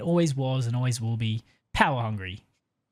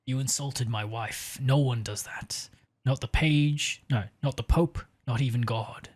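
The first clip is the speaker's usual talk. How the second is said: a hint of a brooding movie-star accent, threatening; Daniel Day-Lewis accent. Fisk warns the cardinal who insulted his wife, lightly put-on film-actor accent. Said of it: "I'm doing a Daniel Day-Lewis accent".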